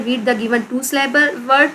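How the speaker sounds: reading the task aloud slowly; slow classroom reading; slow instruction read. Shown as a demonstration. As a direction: read the exercise title, unhurried. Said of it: "आपको दिए हुए हैं".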